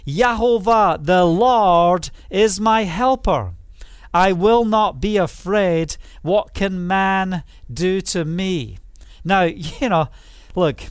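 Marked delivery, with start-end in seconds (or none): 0.1-8.8 confident declaration. Shown as a demonstration. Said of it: "We say this with confidence".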